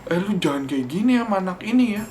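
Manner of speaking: retold yell. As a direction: bark a warning at someone bullying the kid. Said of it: "teriaknya kayak".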